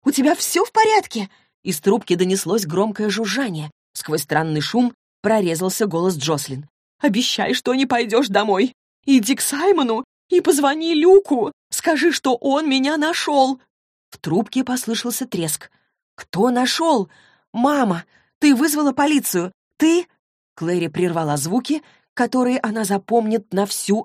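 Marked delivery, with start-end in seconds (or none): 0.0-1.3 high, loud anxious question; worried cry down the line; frightened plea for an answer; alarmed daughter. Acted. 7.0-13.6 high, loud urgent warning; mother begs daughter over a crackling line; desperate mother. Acted. Mother warns in danger. 16.1-20.1 high, loud frightened questions; climbing alarm; girl shouts questions into the phone; rising panic. Acted.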